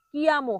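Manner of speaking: কিয়ামো with unaspirated k; careful model কিয়ামো, no puff of breath; correct pronunciation. Shown as a demonstration. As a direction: say কিয়ামো as "ki-amo". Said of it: "হয়".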